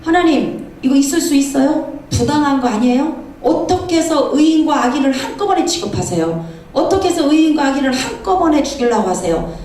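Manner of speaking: imitating a worked-up challenge; arguing urgently. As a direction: press God with question after question. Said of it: "이런 식으로 따져요".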